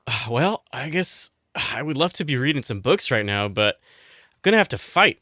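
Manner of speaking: lightly put-on bookworm accent, reluctant; Oden Ur. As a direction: sigh into a mild character accent. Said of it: "Oden Ur now has that accent".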